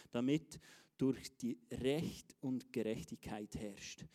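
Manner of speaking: slow, deliberate Bible reading; scripture reading. Acted. Preacher reading the queen's praise of Solomon, slow and measured. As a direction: read it out solemnly, phrase by phrase. Reads a Bible verse aloud.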